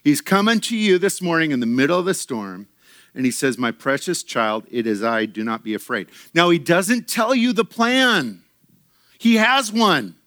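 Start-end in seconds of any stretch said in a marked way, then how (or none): 3.6-6.1 low, gentle comforting voice; tender reassurance. Acted. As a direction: reassure a frightened child, low and soft. Voices Jesus comforting his child.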